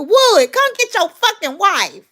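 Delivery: loud high call, slowed down; calling out to the husband to fetch his wife, loud. Real, not acted. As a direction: yell across the room at him, slowly.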